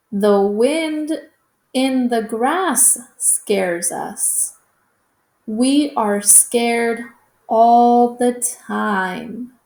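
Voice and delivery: slow, expressive read-aloud; reading to children. Acted. Teacher reading the hare story to young students, slow and expressive. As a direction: read it slowly so the kids can follow.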